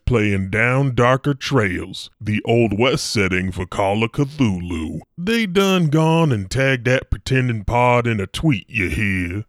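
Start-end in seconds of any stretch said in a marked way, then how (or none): 5.2-9.4 Western drawl. Acted. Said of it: "That's some Western talk for you cowpokes".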